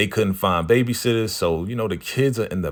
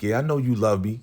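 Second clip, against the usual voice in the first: confident attitude; 3 semitones higher, faster than usual. Retold or imitated. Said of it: "the whole attitude has changed".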